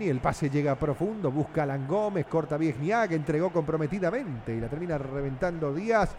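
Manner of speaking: radio football narrator; live football play-by-play. Acted. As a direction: follow the ball pass by pass.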